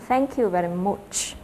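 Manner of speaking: Australian accent, much said slowly as "mu"; slow Australian "Thank you very much", much with no ch. Shown as a demonstration. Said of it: "các bạn sẽ nghe thấy là".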